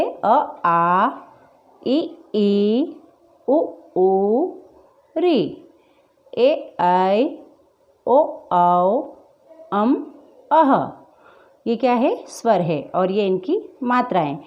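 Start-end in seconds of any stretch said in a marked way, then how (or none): 0.0-10.7 each vowel recited separately, short then long; स्वरों का उच्चारण. Shown as a demonstration. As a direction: recite the vowels one by one, holding the long ones. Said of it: "इनका उच्चारण इस तरीके से". (स्वरों का साफ़, अलग-अलग उच्चारण)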